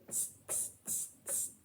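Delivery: breathy mocking tss from the monkeys; cheeky monkeys mocking the peddler's scolding; monkeys tsk-tsking back. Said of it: "stamped both their feet back at him and said".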